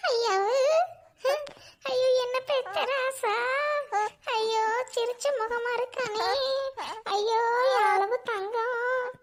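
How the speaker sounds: slow, drawn-out doting lament; crying over baby. Acted. Grandmother cooing tearfully at newborn grandson, slow. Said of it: "அழுதுகிட்டு பேசுற?".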